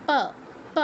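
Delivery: প with lips shut, then opened; two-lip প. Shown as a demonstration. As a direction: pop প with both lips, no teeth. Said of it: "ঠোঁট দুটো একবার বন্ধ করছেন". (প, ঠোঁট বন্ধ করে খুলে)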